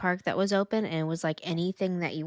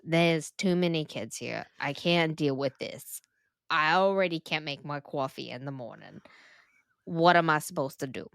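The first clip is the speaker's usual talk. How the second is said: bad New Jersey accent; 2 semitones lower than usual. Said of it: "My New Jersey accent is very terrible".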